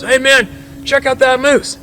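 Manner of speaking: high-pitched excited heads-up; hunter's high, urgent alert; urgent calling out. Retold or imitated. Hunter calls out a moose sighting.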